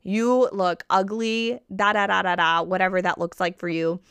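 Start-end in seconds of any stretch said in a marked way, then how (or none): 0.0-2.6 mock mean talk. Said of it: "We wouldn't be like".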